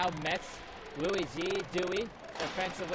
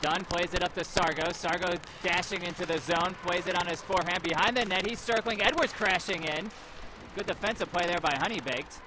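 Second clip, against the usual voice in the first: play-by-play. Acted. Live hockey play-by-play.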